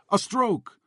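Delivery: put-on high, pleading foreign accent; heavily accented English, slow and pleading. A narrator's reading. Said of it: "heavily accented, broken English".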